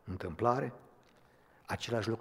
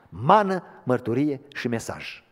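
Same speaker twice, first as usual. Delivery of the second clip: loud proclamation; 3 semitones higher, 10 dB louder, slower than usual. Acted. Preacher listing the ark's contents, loud proclamation. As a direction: hammer the three words home.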